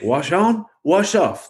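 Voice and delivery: a hint of the old karate master's calm instruction; quoting the mentor's famous line for a friend; Mister Miyagi quote. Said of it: "gets taught by Mister Miyagi".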